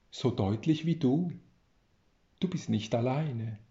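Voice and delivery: reading a story aloud with care; a storyteller reading his tale to listeners; story narration. A narrator's reading. Author reads his tale aloud, in a measured narrating voice.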